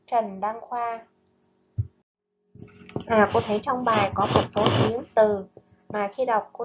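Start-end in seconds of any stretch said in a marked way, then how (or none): 0.1-1.1 slow, measured poem recital; poem reading. Acted. Teacher reading a poem to her pupils, slow and measured. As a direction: read the lục bát poem gently to the class.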